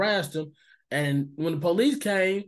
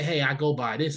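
calm, lower-pitched correction; watched tone; 3 semitones lower than usual. Shown as a demonstration. Showing strangers how to correct him, no attitude. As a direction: say it evenly, without any attitude. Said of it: "Watch your fucking tone and just say".

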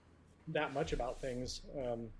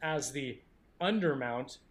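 condescending voice; 2 semitones higher, 4 dB louder, slower than usual. Acted. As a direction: read it like a smug know-it-all. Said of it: "somewhat condescending voice".

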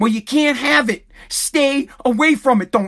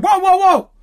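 alarmed whoa; 6 semitones higher, 3 dB louder than usual. Retold or imitated. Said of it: "and I said".

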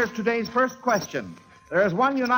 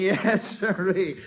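laughing; slower than usual. Real, not acted. Delighted quizmaster laughing.

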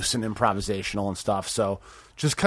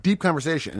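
usual speaking voice

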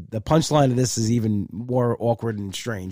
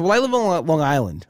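politely wriggling out of it; trying to be nice. Retold or imitated. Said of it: "I was trying to be nice".

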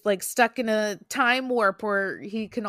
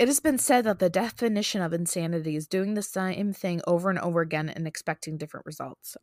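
a slight Texas twang while reading; reading aloud with a faint Texas twang; little Texas twang; faster than usual. Real, not acted. Friend hears a little Texas twang in her reading. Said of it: "You had, you had a little twang".

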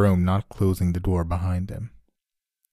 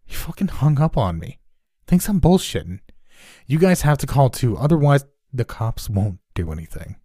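high, loud indignant rant; 5 semitones higher, 4 dB louder than usual. Acted. Neighbor telling the others the police hung up, indignant. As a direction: fume then urge the others. Stranger angry, urging others.

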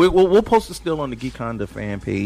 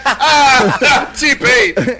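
burst of laughter; 12 semitones higher, 9 dB louder than usual. Real, not acted. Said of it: "a singer's name!".

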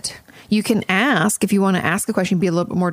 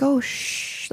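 soft, higher hushing; soothing; 6 semitones higher, 5 dB quieter than usual. Retold or imitated. Therapist imitated soothing a client like a baby, soft hush. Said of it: "like, soothing".

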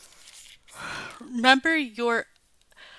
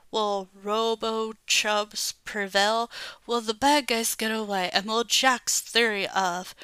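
announcer outro. Acted. Kid closing his puppet show with a dramatic announcer teaser. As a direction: tease the next episode like a cartoon announcer.

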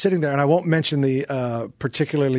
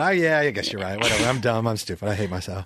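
mock self-pity; 6 semitones lower than usual. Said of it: "I went".

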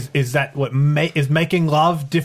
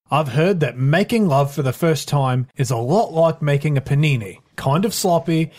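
reading a letter aloud. Acted. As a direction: read it like an advice column letter. Reads advice column letter.

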